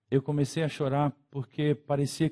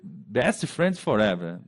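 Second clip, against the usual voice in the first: "best friends forever" stretched slow and lower, a sulky drawl; drawn-out sulk; 3 semitones lower, much slower than usual. Acted. Amigo magoado reclamando. ("best friends forever" arrastado, baixo e magoado)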